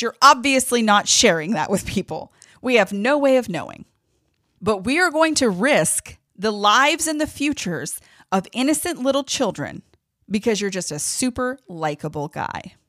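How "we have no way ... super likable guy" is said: furious. Real, not acted. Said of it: "but I'm angry".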